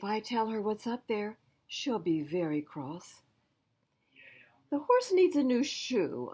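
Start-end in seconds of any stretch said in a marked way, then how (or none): 4.7-6.3 raised, lively uncle voice; a busy farmer calling back over his work; a farm uncle busy with the horse; uncle's voice. Acted. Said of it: "Uncle replied".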